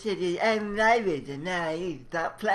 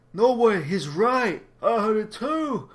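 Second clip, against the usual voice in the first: excited shout; 3 dB louder, slower than usual. Acted.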